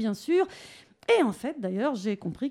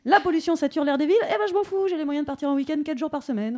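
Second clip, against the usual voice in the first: mock rich shrug, pitched higher and quick on eh ben je m'en fous; breezy I couldn't care less, mocking the rich; hammed-up carefree snob; smug indifference; 4 semitones higher, faster than usual.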